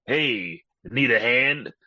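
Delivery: whispered, then a sly quip; lightly voiced horror-movie demon joke; demon pun. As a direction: tease the line like a cheesy villain. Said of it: "looks toward the camera and says".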